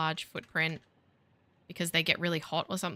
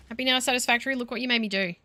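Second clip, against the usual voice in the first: even louder and higher, naming the game in exasperation; louder sarcastic taunt; 5 semitones higher, 4 dB louder, faster than usual. Real, not acted. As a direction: yell the blame right at the game.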